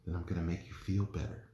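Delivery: soft, low and hushed reassurance; whisper. A narrator's reading. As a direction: keep it very soft, close to the ear. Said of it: "heard a whisper in her ear".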